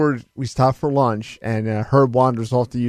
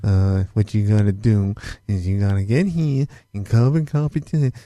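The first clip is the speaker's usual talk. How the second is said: Herb; 4 semitones lower than usual. Retold or imitated. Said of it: "we would just talk like Herb".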